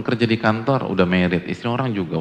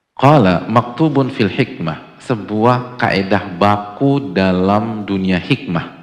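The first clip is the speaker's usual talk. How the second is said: solemn citation; 7 dB louder, much slower than usual. Real, not acted. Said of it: "solemn Arabic quotation".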